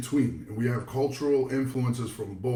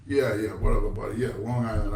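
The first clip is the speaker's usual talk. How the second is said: low, tossed-off brush-off; dismissive; 3 semitones lower than usual. Retold or imitated. Rhode Islander giving up on correcting someone, dismissive. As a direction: give up and wave them away.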